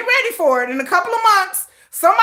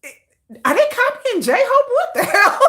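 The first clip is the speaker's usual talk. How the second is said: mock confused fan; 7 semitones higher than usual. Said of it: "you gonna be like".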